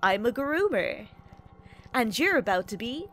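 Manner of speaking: high wavering oh's into a creepy greeting; creepy groomer character line. Acted. Streamer performs his character's catchphrase, creepy and hammed. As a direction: ham up a creepy villain intro. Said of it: "the actual thing I say is".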